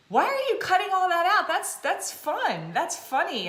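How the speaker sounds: friend's reaction. Retold or imitated. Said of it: "she's like".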